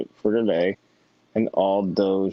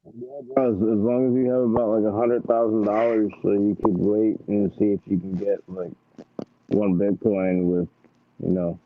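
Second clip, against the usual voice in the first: into a pillow. Real, not acted. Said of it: "You sound like you're talking through a pillow".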